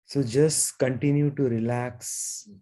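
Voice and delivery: unhurried meditation guidance with long pauses; guided meditation. Real, not acted. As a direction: guide them gently into stillness, leaving long silences.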